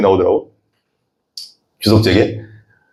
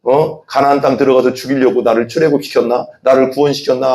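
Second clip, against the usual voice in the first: grumbling Israelites. Retold or imitated. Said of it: "하면서 막 원망했다고".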